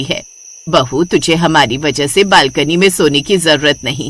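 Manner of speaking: low mother-in-law voice, pleased; kindly mother-in-law. Acted. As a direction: reassure your daughter-in-law in a low voice.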